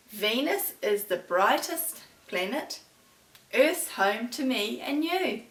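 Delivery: slow, deliberate rhyme reading; poem read to children. Acted. Teacher reading a planet poem to her class, slow. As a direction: read slowly so they can think.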